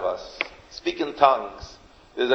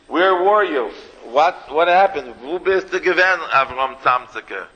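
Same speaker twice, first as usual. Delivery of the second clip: excited townsfolk; 3 semitones higher than usual. Acted. Townspeople demanding where he was.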